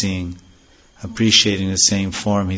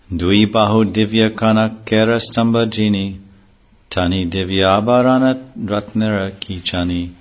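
verse recitation. Acted. Reciting Bengali scripture verses.

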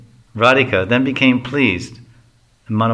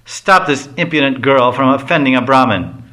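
angry; 2 semitones higher, 3 dB louder than usual. Acted. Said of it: "Madhumangal becomes angry and says".

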